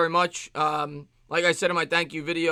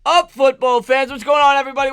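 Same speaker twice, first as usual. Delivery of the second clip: rally the fans as the stream kicks off; hype intro call; 6 semitones higher, 5 dB louder than usual. Acted.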